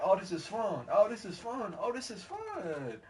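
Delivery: high, sing-out glee, stretching the last one; gleeful slide riding. Retold or imitated. Retelling the slide ride down, mock glee. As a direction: re-enact whooping delight on the way down.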